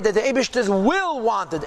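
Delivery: will leaned on with a light push; a slight stress on will, teaching the point. Shown as a demonstration. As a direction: give the word will a mild extra weight. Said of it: "emphasis on the word will".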